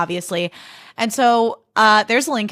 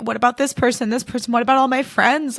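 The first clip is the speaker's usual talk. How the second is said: begging; 4 semitones higher than usual. Retold or imitated. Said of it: "He's, like, begging them to keep him".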